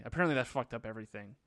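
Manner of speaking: quick, low-key sarcasm; sarcastic. Real, not acted. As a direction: toss it off with dry sarcasm. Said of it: "I say that kind of sarcastically".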